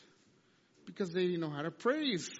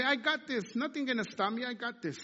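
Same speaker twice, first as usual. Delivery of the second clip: confident boast; 4 semitones higher than usual. Retold or imitated. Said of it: "you say".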